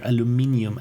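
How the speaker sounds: "aluminium" with the I before the final um sounded; pronouncing the I. Shown as a demonstration. Streamer arguing there's an I in there, I pronounced. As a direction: stress MIN in "aluminium" and end in ee-um. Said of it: "because there's an I in there".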